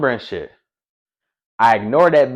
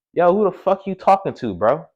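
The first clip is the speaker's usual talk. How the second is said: retold angry challenge; 6 semitones higher than usual. Retells confronting the caller.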